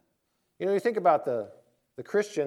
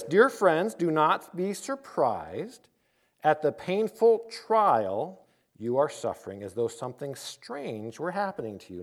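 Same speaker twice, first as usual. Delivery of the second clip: deliberate scripture read; slower than usual. Acted. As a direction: read it out to the congregation, measured. Reads scripture aloud.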